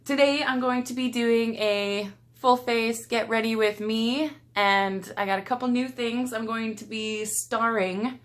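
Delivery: bright, high, loud YouTuber intro voice with a stray accent; over-the-top channel intro in an accidental accent; odd intro accent. Real, not acted. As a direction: greet the viewers up high with a slipped-in accent. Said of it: "I don't know what I did with that accent there".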